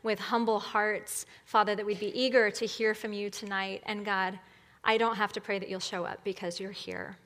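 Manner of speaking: subdued opening prayer, easing down to amen; public prayer. Real, not acted. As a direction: pray quietly before the congregation.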